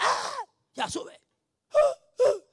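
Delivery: put-on high, slow drunken mumble; a drunk man answering in a high, slurred voice; mock drunk mumbling. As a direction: slur it like a weeping drunk.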